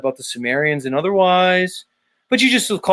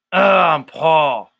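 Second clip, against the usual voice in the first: impression; 4 dB louder, much slower than usual. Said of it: "impression of Paul Enslaved".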